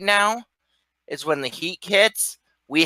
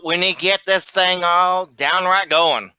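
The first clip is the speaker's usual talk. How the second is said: put-on lightly laid-on Southern accent. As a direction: copy a Southern accent, playing it up a bit. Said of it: "You're just really putting it on now".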